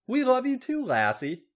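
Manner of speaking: high, loud affectionate coo; acted high-pitched cooing. A narrator's reading. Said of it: "Becky cooed".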